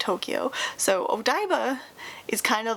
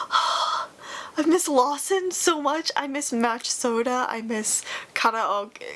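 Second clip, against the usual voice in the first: drawn out slowly, pitched up with yearning; wistful longing; slower than usual. Real, not acted. Missing her life in Japan, wistful and slow. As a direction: stretch it out like you ache for it. Sighs, then longs for Japan.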